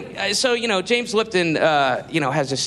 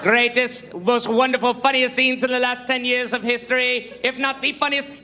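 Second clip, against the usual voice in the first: mock James Lipton; 4 semitones higher than usual. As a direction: puff yourself up like a vain host at the podium. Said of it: "and he's going".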